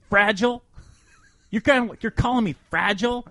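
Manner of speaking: a wounded guy catching the insult; indignant disbelief. Retold or imitated. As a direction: teammate realizes the nickname, rising shock. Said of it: "he goes".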